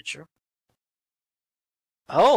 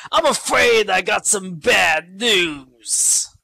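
slow, hammed-up bad-news delivery; mock grave announcer; 2 semitones higher, slower than usual. Commentator voicing a manager with bad news, slow and hammed up. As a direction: drag it out like a doom-laden official. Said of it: "as Louis says".

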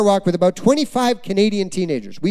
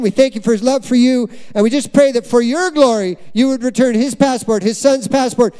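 higher, earnest prayer voice; a hint of a fervent boy praying; teen boy praying; 4 semitones higher than usual. Teen boy praying aloud for the pastor's papers, earnest. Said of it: "He's like".

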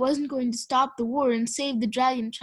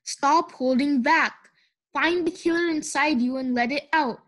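snarling. Acted. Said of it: "the red dragon snarled".

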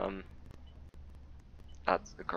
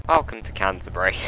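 announcer; 7 dB louder, faster than usual. Acted. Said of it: "repeated as dramatic whisper".

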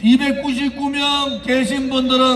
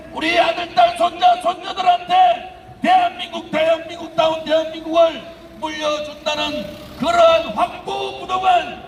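impassioned rally speech; 4 semitones higher than usual. Real, not acted. Rally speech building to shouts.

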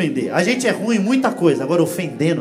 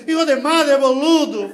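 higher, louder Argentine Spanish curse; Argentine driver yelling; 5 semitones higher, 4 dB louder, slower than usual. Retold or imitated. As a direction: shout it out the car window like an Argentine. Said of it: "um argentino coloca a cabeça".

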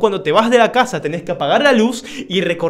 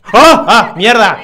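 mock scream; 10 dB louder, slower than usual. Character scream in game dialogue.

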